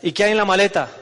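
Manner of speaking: mildly agitated, puzzled questioning; a touch of acted worry; worried questioning. Worried man questioning God about the suitcase, mildly anxious. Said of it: "El tipo se queda preocupado".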